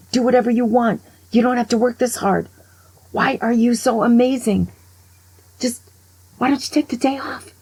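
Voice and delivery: begging her to give herself a break; exasperated pleading. Retold or imitated. Teller urging the overworked surgeon mom, excited pleading.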